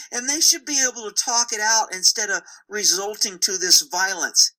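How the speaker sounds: lightly mocking well-meaning horse owner; mock human sentimentality. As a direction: plead for nice communication, tongue in cheek. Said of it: "That's human crap, people".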